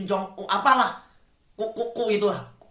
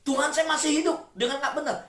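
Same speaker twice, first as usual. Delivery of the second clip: pleading prayer; 7 semitones higher than usual. Acted. Congregant confessing in prayer.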